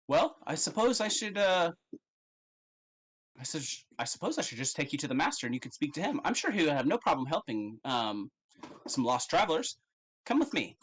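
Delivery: a hint of a polite elf escort; elf guide. Elf guide to the lost travelers, lightly voiced, polite.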